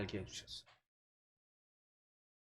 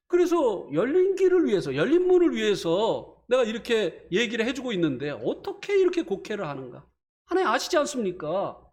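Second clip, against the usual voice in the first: indignant prayer; 5 semitones higher than usual. Retold or imitated. Pastor retells venting anger in prayer.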